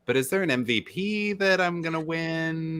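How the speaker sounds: high, hopeful inner voice; wondering Joe. Retold or imitated. Host imagining Joe's hopeful thoughts, lightly voiced. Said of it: "Joe must be wondering".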